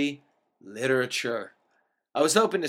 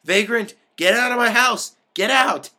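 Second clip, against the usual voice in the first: high, loud theatrical yelling; histrionic shouting; 7 semitones higher, 9 dB louder than usual. A narrator's reading. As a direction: ham up the outraged eviction. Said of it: "he continued histrionically".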